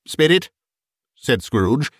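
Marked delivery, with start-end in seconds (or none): 0.1-0.5 understated broken plea. A narrator's reading. Scrooge appeals to the ghost, mildly broken voice. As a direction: plead as if broken, lightly acted. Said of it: "in a broken voice".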